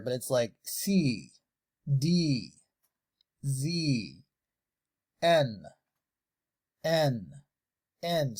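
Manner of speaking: "C, D, Z, N, N, N" with lips pushed wide and slow; exaggerated mouthing. Shown as a demonstration. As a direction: overdo each letter shape. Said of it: "I'm exaggerating here".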